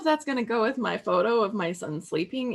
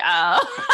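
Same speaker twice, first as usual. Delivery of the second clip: a loud, laughing "Oh." groan, imitating a friend; mock groan; 5 semitones lower, 9 dB louder than usual. Teasing viewer Heather for reacting to gnomes, laughing mock groan. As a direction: groan it out through laughter, in fun. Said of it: "like, groaning".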